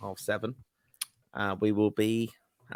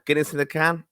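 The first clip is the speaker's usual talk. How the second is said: higher, weighty pronouncement of "Guinness in a can"; mock verdict; 6 semitones higher than usual. Shown as a demonstration. Asked for his opinion on canned Guinness, mock verdict. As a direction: deliver it like a solemn judgement. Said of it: "give us your opinion now".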